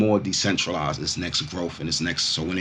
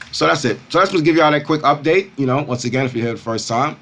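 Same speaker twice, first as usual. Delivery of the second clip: high, loud hype host; crypto bro; 7 semitones higher, 5 dB louder than usual. Real, not acted. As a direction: pump up the audience, louder. Crypto vlog hype sign-off.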